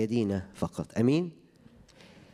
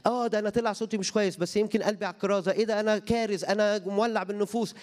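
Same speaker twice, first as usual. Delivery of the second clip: mock believer's discovery; 9 semitones higher than usual. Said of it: "imagined believer discovering gift".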